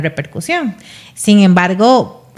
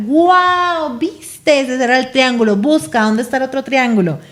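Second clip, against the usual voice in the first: playful parent voice; 4 semitones higher than usual. Acted. Playing with child, voicing parent.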